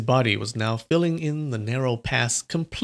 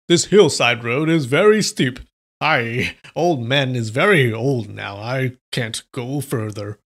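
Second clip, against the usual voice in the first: put-on louder, puffing feeble old man; panting old man; 4 dB louder than usual. Swordsman pretends to be a worn-out old man, panting. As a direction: wheeze it out like a tired old man. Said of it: "continuously panted loudly".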